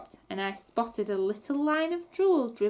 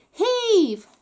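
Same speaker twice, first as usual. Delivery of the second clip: loud hauling cry pitched high; strained, high group shout; goblins shouting again; 10 semitones higher, 8 dB louder than usual. Acted. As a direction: heave it out like dragging a chariot. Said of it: "they shouted".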